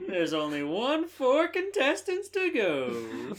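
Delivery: slow laughing imitation; laughing repeat; laughing mock quote. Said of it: "laughs at reading".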